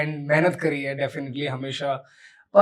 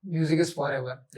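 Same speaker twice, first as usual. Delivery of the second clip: slow slogan; 4 dB quieter, much slower than usual. Real, not acted. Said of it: "slogan repeated for emphasis".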